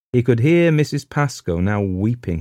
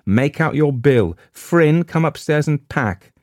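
crying out; 8 semitones higher, 4 dB louder than usual. A narrator's reading. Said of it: "cried Gerald".

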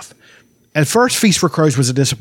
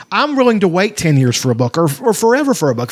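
retold fan talk; 4 semitones higher than usual. Mocks impatient fans' view.

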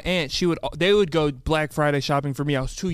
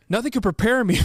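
trying not to laugh; 5 semitones higher, 4 dB louder than usual. Real, not acted. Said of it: "gonna say it again".

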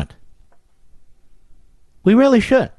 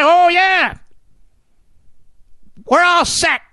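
mock Democrat boast; 5 semitones higher than usual.

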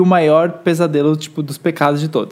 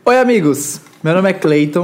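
upbeat youtuber intro, bright opening; mock YouTube intro; youtuber greeting impression. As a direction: greet like a vlogger starting a video. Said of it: "eu não tinha o bordão".

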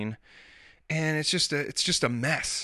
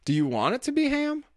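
sly coaxing dad; 13 semitones higher than usual. Retold or imitated. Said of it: "This is an actual conversation".

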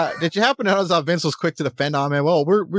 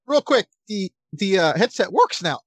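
voice cracking; 3 semitones higher, slower than usual. Real, not acted. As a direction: voice cracks mid-sentence. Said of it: "I don't know why my voice cracked".

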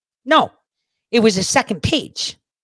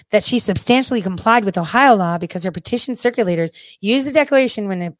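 ordinary talk

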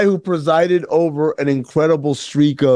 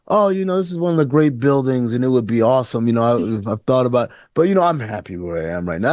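vague noncommittal; 4 semitones lower, faster than usual. Retold or imitated. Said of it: "this very, like, vague".

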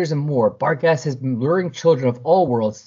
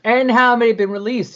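pointed high question; 11 semitones higher, 5 dB louder than usual. Retold or imitated. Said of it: "She's like".

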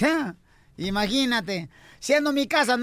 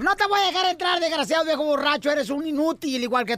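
scolding wife. Acted. Wife refusing her drunk husband at the door, mock scolding. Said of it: "le contesta a la mujer".

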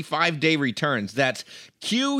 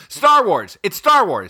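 excited guess; 3 semitones higher, 6 dB louder, slower than usual. Real, not acted. Shouting charades guesses.

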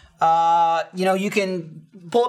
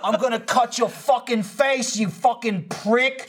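higher, mock-menacing insult; imitated loud phone threat; 5 semitones higher, slower than usual. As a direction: lightly imitate a man going off on his friend. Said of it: "really talking loud into the phone".

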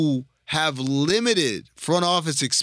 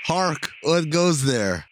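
put-on slow, theatrical old-fashioned call; hammy stage actor; slower than usual. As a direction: declaim it like a Shakespeare guard. Mock old-timey stage call.

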